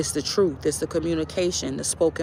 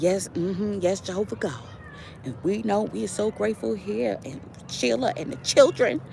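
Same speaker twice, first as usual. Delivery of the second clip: country twang prayer; 3 semitones higher, 4 dB quieter than usual. Retold or imitated. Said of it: "she had that country twang".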